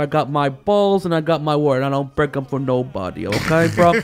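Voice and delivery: put-on Scarface-style Cuban accent. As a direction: tough guy Cuban accent, Tony Montana style. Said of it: "You do not do a very good Cuban accent".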